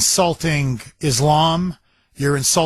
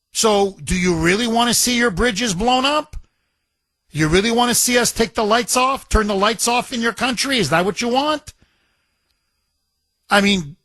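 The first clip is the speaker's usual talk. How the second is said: higher-pitched mock exasperation, rising questions; Trump, frustrated; 4 semitones higher than usual. Host voicing the president warning Iran, imitated frustration at boiling point. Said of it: "his frustration has reached a boiling point".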